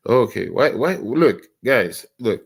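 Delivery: loud, pleading call to the chat. Real, not acted. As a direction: call out to get their attention. Calling out to absent chat.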